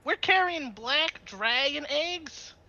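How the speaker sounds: slow, high-pitched disbelief; slow, rising astonishment; incredulous question. Acted. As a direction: draw it out high, stunned by the news. Character learns what they carry.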